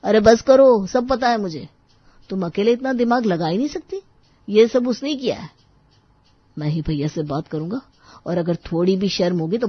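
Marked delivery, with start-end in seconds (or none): 0.0-5.5 angry accusation. Acted. Husband blames wife's brother for everything, angry and heated. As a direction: cut in angrily and accuse, pitch raised.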